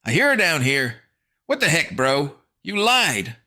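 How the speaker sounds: put-on scared boy shout; panicked boy. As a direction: accuse in fright. Fancy Pants panicking.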